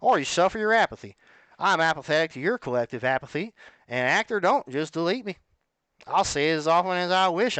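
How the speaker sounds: hammed-up cowboy delivery; lightly put-on cowboy, stretching some phrases. Shown as a demonstration. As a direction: read it like a cowboy. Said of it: "Read it in, like, a cowboy voice".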